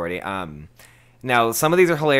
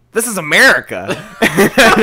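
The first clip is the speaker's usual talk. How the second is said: loud, raised-pitch mock outrage; indignant caller; 7 semitones higher, 10 dB louder than usual. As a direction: declare it like an outraged customer. Acted indignant caller arguing.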